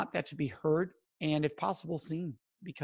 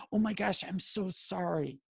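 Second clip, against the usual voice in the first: pitying sympathy; 3 dB quieter than usual. Shown as a demonstration. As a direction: gush pity, sinking softly on sorry. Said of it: "that comes off as pity".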